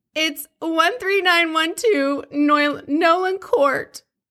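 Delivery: mocking put-on voice. Reading a 911 call aloud, making fun of the caller: mocking imitation of Teresa. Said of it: "I'm kinda gonna make fun of her".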